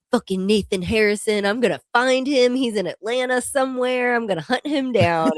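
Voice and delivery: hammed-up grudge of a sore loser; mock vengeful fan. Fan telling his story next day, mock vengeful.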